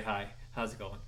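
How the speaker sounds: ordinary talk, nothing marked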